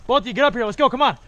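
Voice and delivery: urgent shouted commands; calling out. Real, not acted. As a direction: call them up the hill. Calling teammates forward under fire.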